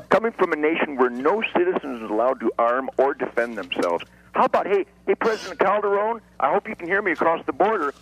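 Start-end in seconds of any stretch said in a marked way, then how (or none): 4.3-7.9 pitched up, hailing someone far off; calling out. Acted. Guest calling out across the border to the Mexican president, in a raised hailing voice. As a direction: hail him across the border.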